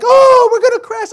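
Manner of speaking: very high, loud pretend alarm; hammed-up panicked yell to amuse the kids; playful mock panic. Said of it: "I played like".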